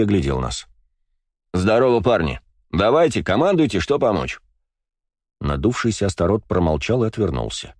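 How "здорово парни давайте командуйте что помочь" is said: cheerful hearty. Acted. Cheerful Slava greets the guys.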